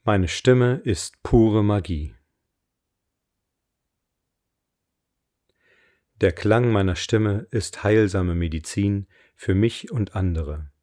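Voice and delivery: slow, deliberate affirmation voice; affirmation reading. Acted. Coach reads her voice affirmations for listeners to repeat, slow affirmation reading. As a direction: read each line with weight and pauses.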